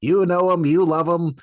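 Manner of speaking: hammed-up game show host. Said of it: "he's like".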